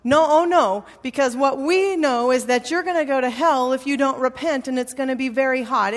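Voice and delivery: hammered-out retold objection, pitch jumping up; insistent young zealot. Young street evangelist warning a stranger he needs to repent, insistent. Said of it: "And the kid said".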